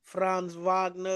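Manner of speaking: Franz Wagner said slowly and deliberately; stretched-out, showy "Franz Wagner"; deliberate pronunciation. Shown as a demonstration. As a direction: draw out the name Franz Wagner with relish. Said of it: "I gotta say it like that".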